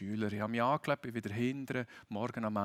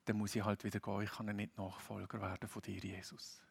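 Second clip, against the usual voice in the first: sad; 3 semitones lower, 6 dB quieter than usual. Retold or imitated. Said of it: "traurig sich umkehren".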